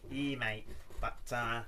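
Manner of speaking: put-on Aussie accent, badly done; bad Australian accent. Imagined Aussie viewers objecting to him, in a poor Australian accent. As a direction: attempt a rough Australian accent. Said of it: "Is that an Australian accent?".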